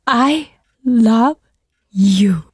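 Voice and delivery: a shy try at a cute I love you; cute English confession. Pretend. Idol confesses in English to listeners, trying cute. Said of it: "英語の告白ゼリフを可愛く".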